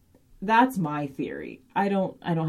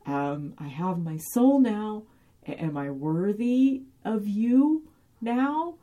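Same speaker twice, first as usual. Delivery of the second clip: a hint of a small child, slowing down; childlike pleading; 5 semitones higher, slower than usual. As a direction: ask like a hurt child hoping to be good enough. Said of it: "this sort of childlike".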